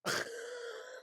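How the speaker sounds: high-pitched burst of laughter; incredulous laugh. Real, not acted. Reacting to a gallstones guess, high incredulous laugh.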